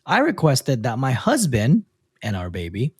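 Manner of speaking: measured read-aloud with lifted phrase starts; reading a post aloud. A narrator's reading. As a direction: read out the letter clearly, pausing between phrases. Reads a listener's post aloud.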